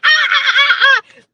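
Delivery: high, loud monkey shrieks; shrieking ape calls, mocking the hecklers; baboon screeching. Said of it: "these baboons come out of nowhere and they're like".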